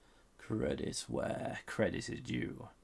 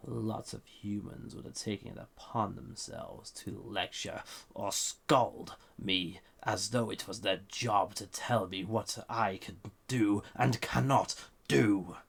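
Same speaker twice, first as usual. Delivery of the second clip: building from even to much louder by the end; rising indignation; 6 dB louder than usual. Acted. Imprisoned being to the dreamer about scolding humans, growing louder. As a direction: let the resentment swell word by word.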